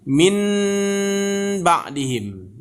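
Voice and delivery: min ba'dihim with a clear n; spelled-out reading; as written. Shown as a demonstration. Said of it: "kalau secara tulisan bacanya".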